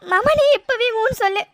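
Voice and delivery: tearful plea. Acted. Girl pleads crying to elope.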